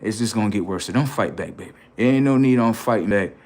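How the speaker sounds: low, hushed pleading; lightly voiced girlfriend, softly urging him to give up; girlfriend talking him down. Girlfriend telling her man he's in checkmate, hushed discouraging tone. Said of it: "Now your girl like".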